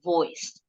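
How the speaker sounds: voiced sound demo. Shown as a demonstration. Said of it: "pita suara kita bergetar".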